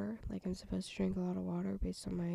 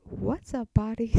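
mock streamer greeting; 3 semitones higher, 11 dB louder than usual.

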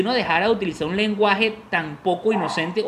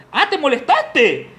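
higher, slow fake innocence; slow, higher mock innocent; 6 semitones higher, 3 dB louder, slower than usual. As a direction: ask it all innocent. Partner's fake question.

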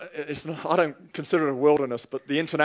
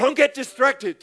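high, slow, emphatic warning; drawn-out pulpit command; preacher's exhortation; 8 semitones higher, slower than usual. Real, not acted. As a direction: urge each word on the congregation.

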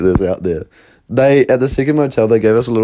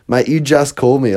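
lightly imitated Australian accent; touch of mock Australian; Aussie accent; 3 semitones higher than usual. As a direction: quote him with a hint of Aussie. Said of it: "He had an Aussie accent".

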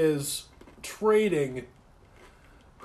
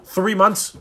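loud sarcastic disbelief; fake-shocked jab; mock outrage; 4 semitones higher, 6 dB louder than usual. Real, not acted.

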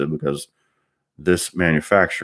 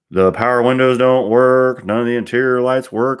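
raised, insistent, slowed-down protest; louder, higher, a retold exasperated protest; exasperated complaint; 6 semitones higher, 5 dB louder than usual. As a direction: spell it out loudly to someone who isn't getting it. Retelling complaint to baffled mechanic.

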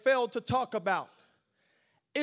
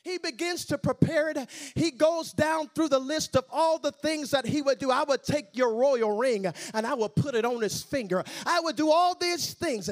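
preaching; 5 semitones higher, 6 dB louder than usual. Real, not acted. Preacher drives the retelling upward.

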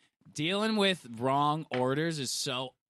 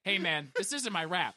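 imitated easygoing customer; toned-down, unbothered objection; mild, casual complaint. Co-host mimicking friend's second version of story, mild complaint. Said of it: "Two totally different vibes".

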